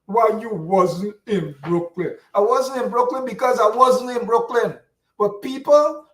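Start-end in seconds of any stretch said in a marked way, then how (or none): 0.0-2.2 slow, sneering echo of the question; mocking the critic. Host mimicking critics who question his absence, slow sneer. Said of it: "want to question me why". 2.4-4.8 defiant retort. Real, not acted.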